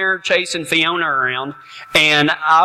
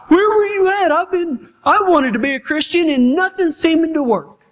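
frustrated believer; 11 semitones higher than usual. Retold or imitated. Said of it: "We're like".

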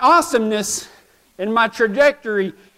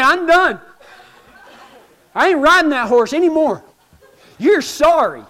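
louder, higher laughing exasperation; mock fed up; 5 semitones higher, 3 dB louder than usual. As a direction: throw up your hands, half laughing. Quitting the horse.

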